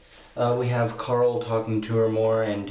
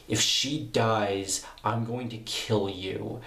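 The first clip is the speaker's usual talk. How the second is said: slow, measured mock threat; slower than usual. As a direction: spell out the threat slowly, without raising the voice. Acted threat in retold scene.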